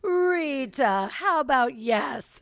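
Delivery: slow, stretched coaxing catchphrase; imitating little boy. Shown as a demonstration. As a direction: draw it out like the wheedling toddler. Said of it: "we go like this".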